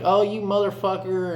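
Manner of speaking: high-pitched retold insult; mock cursing. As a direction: act out cussing someone in a scuffle. Acted cursing in a scuffle.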